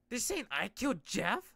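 shocked hero voicing a line; Cassian's voice. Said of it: "I keep changing his voice".

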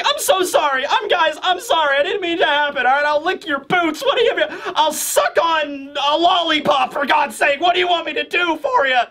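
a cowardly clown begging for mercy; begging Buggy. Retold or imitated. Buggy begging, voiced by retelling.

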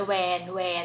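"van van" begun with W, like "wan wan"; wrong W sound. Shown as a demonstration. Warning viewers what not to say, "van" mispronounced as "wan". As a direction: say "van" twice with W replacing V. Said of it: "อย่าไป van van".

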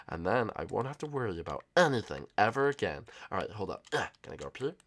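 very soft, low sneaking voice; hushed secretive whisper. Acted. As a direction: keep it down so the sleepers don't wake. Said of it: "I don't have to whisper anymore".

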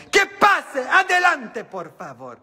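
high, loud host's welcome; imitating Laura welcoming guests, high and bright; TV host imitation. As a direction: announce like a talk-show host. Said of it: "Cuando decía".

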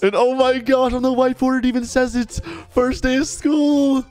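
high, amazed gushing; excited. Pretend. Thrilled child spots whiteboard sign.

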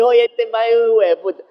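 high, lively, affectionate swearing; admiring insult. Shown as a demonstration. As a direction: curse him as a compliment. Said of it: "Eso es chévere".

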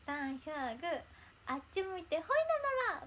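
quoting the character. Retold or imitated. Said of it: "っていうのがね、あの、アニメの中であったんですよ".

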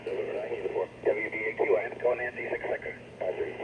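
fading shortwave radio. Real, not acted. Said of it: "chasing the International Space Station repeater".

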